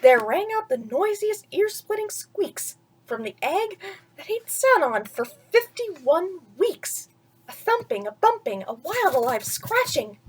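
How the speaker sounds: lively read-aloud voice, slowing for the rhyme; storybook narration. A narrator's reading. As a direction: read it like a bedtime story to a child.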